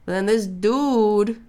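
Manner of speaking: slow, high, outraged storytelling; high-pitched yelling. Real, not acted. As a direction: stretch each phrase out, voice way up. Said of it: "I'm yelling. Like, my voice is so high".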